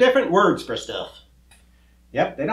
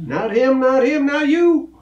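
raised, insistent correction; exasperated correction; 8 semitones higher, 3 dB louder than usual. Acted. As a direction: correct the muddle with rising frustration. Mix-up over who and you.

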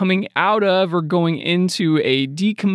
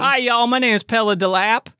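mock introduction; 7 semitones higher than usual. Co-host mock-introduces the artist.

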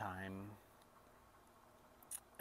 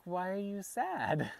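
put-on small child's higher-pitched question, slow; young daughter; 9 semitones higher, 4 dB louder, slower than usual. Young daughter asking her crying dad, imitated high child voice. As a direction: imitate a little girl asking, high and drawn out. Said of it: "she's like".

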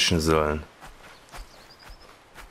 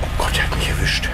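breathless whisper; shocked whisper. Real, not acted. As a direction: whisper it in disbelief. Caught, whispering. (geschockt geflüstert)

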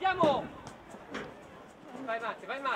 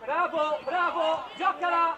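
loud praise then a command; loud cheer; 2 semitones higher, 5 dB louder, slower than usual. Real, not acted. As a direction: celebrate and push on at once. Coach cheering then ordering.

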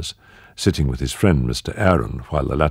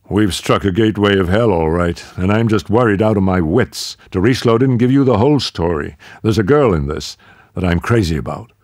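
louder, urgent confession; worried American; 4 semitones higher, 4 dB louder than usual. Acted. Rex confides his fears to Marie-Lou, urgent and louder. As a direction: blurt out the worry, a little higher.

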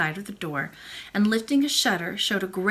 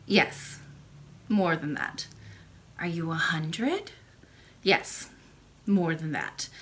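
put-on low, slow old woman; a gentle old grandmother speaking; old lady voice; 6 semitones lower, 7 dB quieter, slower than usual. Old lady answers the princess.

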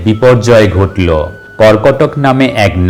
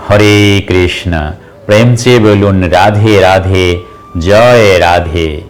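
devotional invocation. Real, not acted. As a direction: stretch the holy names out reverently. Devotional salutation after the mantra.

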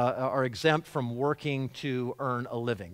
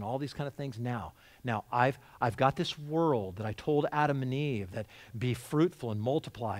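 God speaking gently; 4 semitones lower than usual. Acted. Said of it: "See, this is us".

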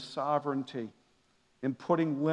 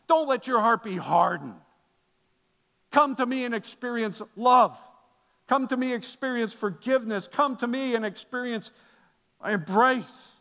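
pleading call; 5 semitones higher, 3 dB louder than usual. Acted. God calling his children.

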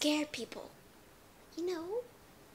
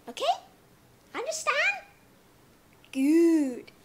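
teacherly check; 4 semitones higher, 9 dB louder than usual. Acted.

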